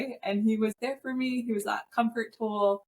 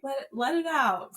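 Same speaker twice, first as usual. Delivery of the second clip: comforting husband voice; 5 semitones higher than usual. Retold or imitated. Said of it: "my husband was being a, that parent part".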